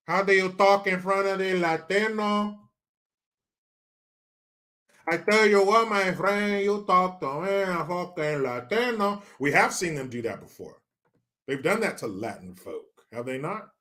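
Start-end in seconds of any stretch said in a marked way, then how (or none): 0.1-9.2 put-on Latino accent, measured delivery; mock Latino accent. Host mimics politicians addressing Latin folk, mock Latino accent. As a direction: fake a Latino accent, pandering.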